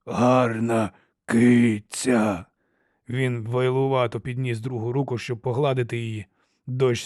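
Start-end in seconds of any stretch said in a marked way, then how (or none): 0.0-2.5 slow rasping monster voice; harsh cracked giant voice. A narrator's reading. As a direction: drag out each word like a simple-minded brute. Giant speaks.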